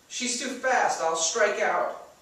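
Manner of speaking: put-on high, slow, defeated girl's voice; she's sure she'll fail; despairing girl. Jenna dreads her turn at bat, high and defeated.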